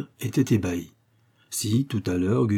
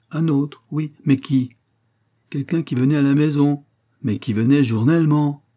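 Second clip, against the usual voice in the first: higher, emphatic know-it-all voice; pompous amateur detective; 5 semitones higher than usual. Acted. Coquille explains his deduction to the accountant, pompous. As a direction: reason aloud with smug authority.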